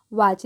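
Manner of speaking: low वॉच said "woch", no T before the "ch"; silent T. Shown as a demonstration. Teacher showing that T is silent, "woch" for वॉच. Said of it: "टी जो है silent है".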